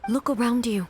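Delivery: slow, soothing assurance; calm reassurance. Acted. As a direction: gently talk a panicked soldier down. Shogun calms a panicking soldier.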